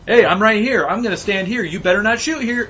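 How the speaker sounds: high, loud mock soldier; dumb grunt voice. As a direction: play the taunting grunt. Voicing a dumb enemy.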